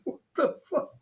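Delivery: high, incredulous exclamation; stunned disbelief. Retold or imitated. Retelling the shock of seeing the toilet water video, high incredulous. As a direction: blurt it out, floored. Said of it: "I was like".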